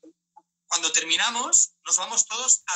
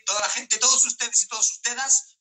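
announcer call-out; 4 semitones higher than usual. Real, not acted. Announcing to live audience.

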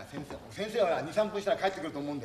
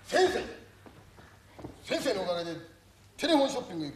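loud mock plea; 3 semitones higher than usual. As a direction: call out to him. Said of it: "言えよ、ほら". (先生に向かって高く叫ぶように)

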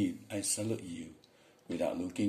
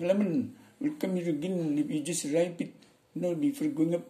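high-pitched mock Indian English; Indian accent; 8 semitones higher, 3 dB louder than usual. Shown as a demonstration. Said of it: "Orang India nih".

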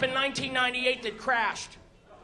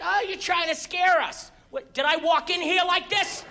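higher-pitched annoyed retort; mock indignation; 7 semitones higher than usual. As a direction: act out an indignant comeback. Angry gamblers and his indignant retort.

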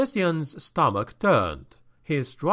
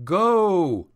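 higher, louder urgent shout; shouted warning; 5 semitones higher, 3 dB louder than usual. Acted. Captive warns the boy to flee, urgent shout. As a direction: yell at him to flee. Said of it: "he shouted to the youth".

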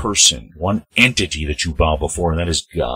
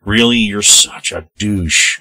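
annoyed jab; 3 semitones higher, 4 dB louder, slower than usual. Real, not acted. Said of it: "I'm getting angry".

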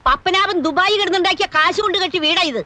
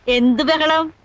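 slow, amused laugh into the question; chuckle, play innocent; much slower than usual. Acted. Grandmother feigning innocence to the visitor, amused slow laugh.

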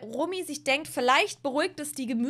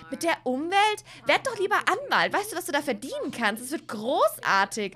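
put-on pushy Sim girl; 3 semitones higher, 3 dB louder than usual. Stella Ann mocks date's plans.

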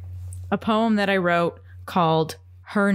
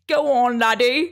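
mock Scottish accent; 2 semitones higher, 3 dB louder than usual. Mock accent urging co-host on.

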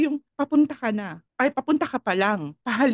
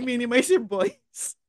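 put-on slow, heavy Filipino accent on "Minimize your voice"; slower than usual. Mocking a Filipino-accented sign, Filipino accent. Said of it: "Puntong Pilipino yun eh".

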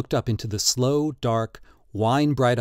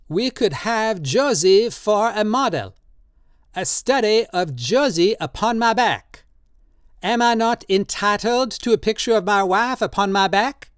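put-on old tattooist Drioli, drunk and pleading; 9 semitones higher than usual. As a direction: coax him tenderly, in wine. Drioli proposes Josie.

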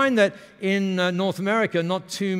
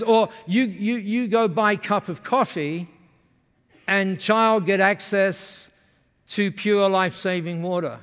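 slowing, slightly raised Japanese-English imitation; Masami's Japanese-accented English; 3 semitones higher, 3 dB louder than usual. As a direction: offer the next example in Japanese broken English. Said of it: "when they speak like that".

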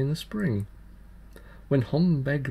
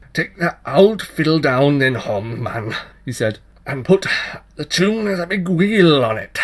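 put-on changeling child voice; 3 semitones higher, 8 dB louder than usual. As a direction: tease him with a cheeky dare. Child voice in dialogue.

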